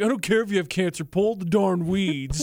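mock callous judge. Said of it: "the judge who's like".

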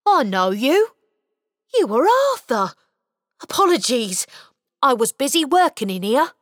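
a caught elf being friendly; cheerful little elf. Acted. Elf introducing himself to the boy, cheerful.

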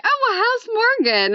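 old boyfriend asking about the little cousin, high mock voice. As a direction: lightly voice a casual boyfriend checking in. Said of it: "They're like".

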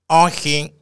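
flat mechanical robot refusal; a stiff machine saying no. Retold or imitated. Robot refusing the old man, in robot voice. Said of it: "και κάνει και τη φωνή του ρομπότ".

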